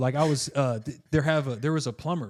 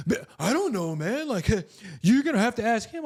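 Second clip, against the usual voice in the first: higher, clueless worker voice; helper's voice; 8 semitones higher than usual. Retold or imitated. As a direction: play the helper who has no idea. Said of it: "plumber's helper voiced".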